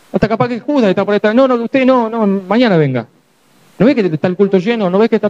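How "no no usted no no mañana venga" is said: higher, brushing-off voice; dismissive gatekeeper. Retold or imitated. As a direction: wave the man away. Judas turning someone away.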